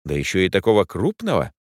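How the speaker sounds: usual speaking voice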